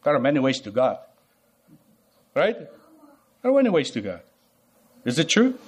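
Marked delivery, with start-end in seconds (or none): 0.0-1.0 mock casual Christian. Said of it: "many Christians will tell you".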